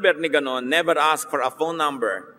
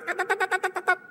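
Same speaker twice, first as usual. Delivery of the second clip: high, quick rattling "tatatat" sound; mock machine-gun rattle; 5 dB quieter, faster than usual. Preacher mimics texters typing many exclamation marks, high rattle.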